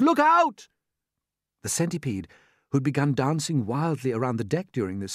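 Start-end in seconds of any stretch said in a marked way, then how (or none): 0.0-0.7 higher, louder urgent warning; crying out. Acted. James warning the centipede again, louder. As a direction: shout it sharper in alarm. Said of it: "cried James".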